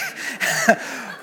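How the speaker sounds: brief high-pitched laugh; a quick amused laugh; short laugh. Real, not acted. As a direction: laugh briefly at something silly. Laughs at the bad English.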